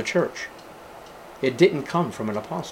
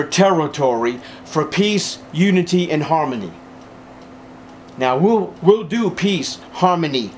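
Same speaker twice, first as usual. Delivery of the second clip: raised-pitch, insistent sermon delivery; emphatic preaching; 3 semitones higher than usual. Real, not acted. Preacher urging believers not to surrender key doctrines, emphatic preaching. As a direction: drive each point home to the congregation. Preaches forcefully against compromise.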